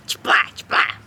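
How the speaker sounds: voiceless mock whip-crack noises; punchy sound-effect for a winning comeback; imitated smack sound. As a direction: act out two sharp smacks with the mouth.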